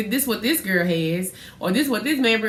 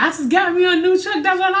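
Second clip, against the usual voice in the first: mock boasting brother; 10 semitones higher, 4 dB louder than usual. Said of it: "he was like".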